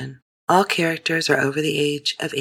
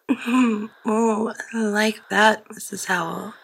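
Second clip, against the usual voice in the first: put-on young girl voice; 6 semitones higher, slower than usual. A narrator's reading. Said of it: "she said".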